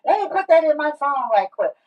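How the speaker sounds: mock excited realization; excited thought. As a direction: act out a sudden brainstorm. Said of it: "you're like".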